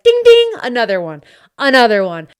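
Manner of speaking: loud gloating chant; triumphant. Retold or imitated. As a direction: celebrate another win. Celebrating fooling another friend.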